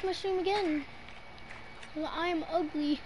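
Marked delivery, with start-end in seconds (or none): 1.9-3.0 mock crying. Self-deprecating joke.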